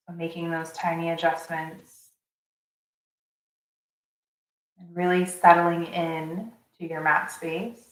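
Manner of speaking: calm guiding voice with long pauses; unhurried meditation teacher's delivery; guided meditation. Acted. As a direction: settle them into the breath, phrase by phrase.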